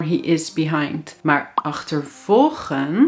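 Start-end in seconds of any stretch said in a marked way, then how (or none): 1.5-3.1 achtervolgen with the stress on volgen. Dutch lesson contrasting achterlopen and achtervolgen: stress on volgen. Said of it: "je hoort de klemtoon op volgen".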